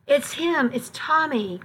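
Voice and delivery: a light, grateful cry of recognition; lightly voiced relief at finding the cat. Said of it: "I said gratefully".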